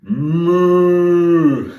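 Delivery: bigger demo moo. Shown as a demonstration. Teacher mooing again to coax kids to join. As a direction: moo out loud for them. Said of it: "You try".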